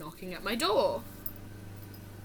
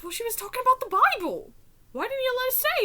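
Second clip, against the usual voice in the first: put-on high, fast protesting child; quick whiny kid; 12 semitones higher, much faster than usual. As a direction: complain up at mom like a pleading kid. Kid arguing with mom.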